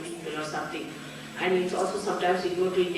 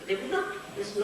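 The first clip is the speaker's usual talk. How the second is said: ordinary talk, nothing marked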